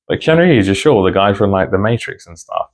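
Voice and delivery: half-laughing disbelief, making sure she means him; incredulous double-check. Retold or imitated. Checking with a relative about nan.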